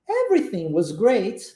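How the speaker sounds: "Everything was great" with the pitch going up; rising tune. Shown as a demonstration. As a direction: lift the voice through "great". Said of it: "Subiu, viu?". (entonação subindo em "Everything was great")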